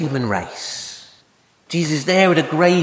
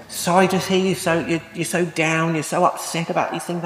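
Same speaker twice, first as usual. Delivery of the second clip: lightly acted, fussing condolences; mock sympathy. Preacher imitating what people say at sad times, mock sympathy. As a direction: imitate a well-meaning, fumbling sympathizer. Voicing platitudes to the bereaved.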